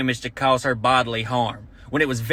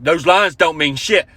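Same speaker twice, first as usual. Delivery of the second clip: slow dopey mock voice; dim husband. Comic mocking the trucker husband, slow and dopey. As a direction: plod through it like a dumb trucker. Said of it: "He's like".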